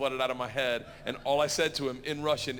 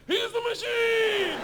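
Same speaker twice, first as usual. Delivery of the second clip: shouting; 6 dB louder, much slower than usual. Retold or imitated. Gangsters chanting back.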